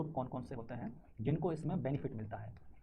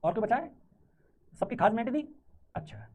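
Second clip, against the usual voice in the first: higher, louder teasing; teasing call-out; 4 semitones higher, 4 dB louder than usual. Real, not acted. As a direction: tease the class loudly. (चिढ़ाते हुए ऊँची आवाज़)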